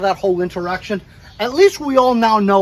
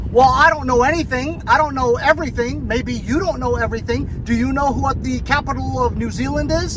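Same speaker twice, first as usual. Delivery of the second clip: higher-pitched imitation Australian accent; down under accent; 6 semitones higher than usual. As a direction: imitate a defensive down-under clerk challenging back. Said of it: "in a down under accent".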